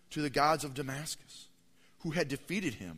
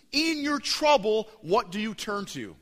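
booming question; 7 semitones higher, 7 dB louder than usual. Acted. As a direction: throw the question out to the whole church. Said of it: "opening question to the church".

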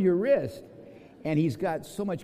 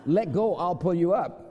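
put-on higher, louder call in a rich Italian accent; 4 semitones higher, 5 dB louder than usual. Italian climber calling down to the Swiss man, rich Italian accent. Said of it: "with rich Italian voice".

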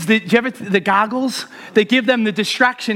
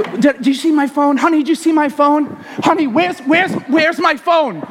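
calling out to wife; 3 semitones higher than usual. Retold or imitated. Acted search, calling to wife.

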